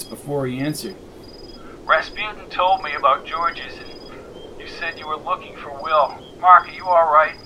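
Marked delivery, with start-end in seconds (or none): 1.8-7.4 shaky voice. Acted. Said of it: "in a shaky voice".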